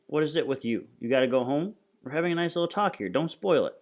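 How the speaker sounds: a touch of mock-friendly menace; mocking gang boss. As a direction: needle the kid for wanting to leave. Voices gang boss mocking the boy.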